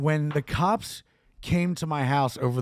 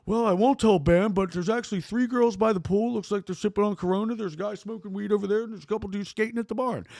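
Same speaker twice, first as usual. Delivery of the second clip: higher-pitched informant, speeding up as it goes; imitated tattling friend; 4 semitones higher than usual. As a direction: mimic a friend reeling off a report.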